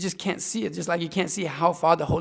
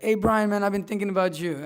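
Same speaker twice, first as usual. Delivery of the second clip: cheerful phone greeting; 4 semitones higher, 3 dB louder than usual. Retold or imitated. Calling friend on phone.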